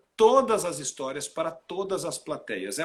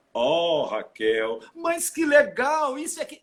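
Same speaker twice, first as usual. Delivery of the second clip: high, lively exclaiming; cheerful storybook voice to a friend; storytelling voice; 4 semitones higher, 4 dB louder, slower than usual. Shown as a demonstration. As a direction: play it up as if telling a kids' story. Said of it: "conte histórias infantis".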